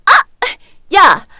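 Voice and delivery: very loud bark; sharp shout. Acted. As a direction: shout back at the sister. Reacts to being hit.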